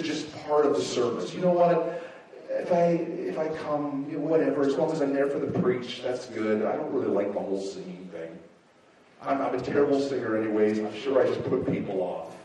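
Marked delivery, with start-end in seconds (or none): 2.5-12.4 low, offhand mumble trailing off; mock indifferent churchgoer, voice sinking. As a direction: shrug it off in a low voice. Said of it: "become indifferent in worship".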